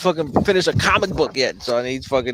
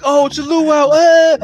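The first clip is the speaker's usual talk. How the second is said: mock luau greeting; 13 semitones higher, 8 dB louder, slower than usual. Shop staff greeting him, acted.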